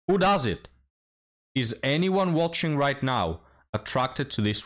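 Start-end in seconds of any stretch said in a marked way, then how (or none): 0.1-0.7 disbelief. Real, not acted. Disbelieving rhetorical question.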